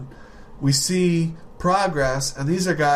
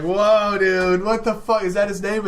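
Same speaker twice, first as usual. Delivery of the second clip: retold shock; 4 semitones higher than usual. Shocked at the name.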